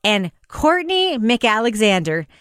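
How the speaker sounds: slow, reverent name reading; hushed deference. Pretend. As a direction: read the names like a solemn blessing. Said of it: "Did I sound reverent enough?".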